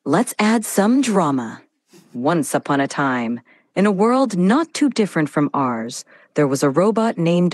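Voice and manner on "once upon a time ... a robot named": more emotion, theatrical narration; dramatic storytelling. Acted. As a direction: add drama to every line. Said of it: "more emotion in your voice, a little bit more drama".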